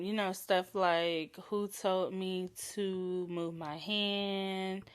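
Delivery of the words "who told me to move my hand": aggressive sexy voice. Retold or imitated. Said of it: "in a aggressive voice".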